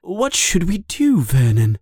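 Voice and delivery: high, worried wife's voice; anxious question. A narrator's reading. Aunt Petunia asks Vernon what to do, anxious question. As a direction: appeal to him in a high voice.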